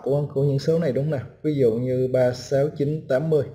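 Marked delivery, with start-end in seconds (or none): 2.1-3.4 plain digits listed in a row. Shown as a demonstration. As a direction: read the digits "ba sáu chín tám" one at a time, evenly. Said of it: "thì mình sẽ biết cách đọc nha".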